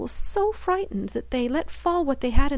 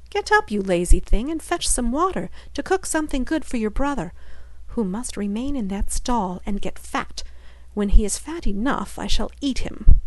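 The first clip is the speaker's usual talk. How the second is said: bossy witch. Acted. Witch waking Gretel and ordering her to fetch water, harsh. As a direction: scold the lazy girl like a cruel mistress.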